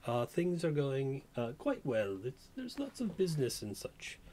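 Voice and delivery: put-on lightly British-accented saloon madam; slight British accent. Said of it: "she has a bit of a British accent".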